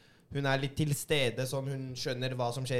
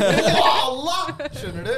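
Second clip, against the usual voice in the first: loud slang exclamation; 9 semitones higher, 8 dB louder, much slower than usual. Retold or imitated. Keeps the slang kid voice.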